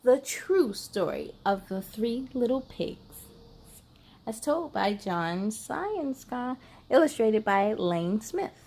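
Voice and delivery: sly wolf narrator telling his side; wolf storyteller. Acted. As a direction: read it as the innocent wolf pleading his case.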